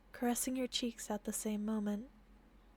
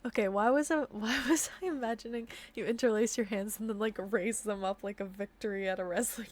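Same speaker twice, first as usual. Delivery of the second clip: plain reading voice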